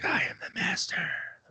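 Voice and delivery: soft, hushed whisper under the breath. Retelling how a wrestler talks on the mic: imitating Sid whispering. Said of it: "whispering. He's like".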